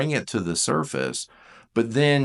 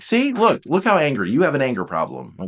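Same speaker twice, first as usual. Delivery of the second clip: accusing partner; 5 semitones higher, 3 dB louder than usual. Retold or imitated. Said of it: "you're like".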